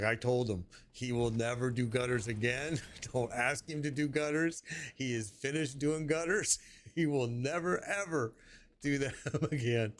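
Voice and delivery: retold warning broken by small chuckles; amused wife. Wife telling friends about husband and gutters, lightly laughing. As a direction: imitate a wife chuckling as she lays down the rule. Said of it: "she's, like, laughing".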